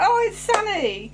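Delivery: high, slow delighted realisation; surprised recognition. Retold or imitated. Realising the Ice Warrior actor is a friend, delighted. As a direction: draw it out as a happy discovery. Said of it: "I'm like".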